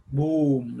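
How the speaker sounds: lightly imitated firecracker boom. Shown as a demonstration. Teacher giving sound examples, mild firecracker boom. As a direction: say boom like a cracker. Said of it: "like a cracker".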